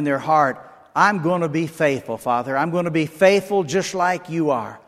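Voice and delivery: steady, earnest prayer voice, calling on the Lord; closing prayer. Acted. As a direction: pray over the congregation with conviction.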